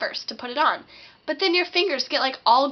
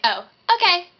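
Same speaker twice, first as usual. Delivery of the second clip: clueless acceptance; 6 semitones higher, 5 dB louder than usual. Acted. Clueless friend accepting the answer.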